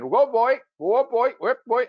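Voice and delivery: shepherd calling out. Retold or imitated. Shepherd calling commands to his sheepdog, imitated. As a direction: call the dog like a shepherd on a hillside.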